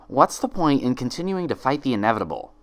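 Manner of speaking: understated sinister twin; lightly voiced dark twin. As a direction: voice the sinister double gently. The other Twilight speaks.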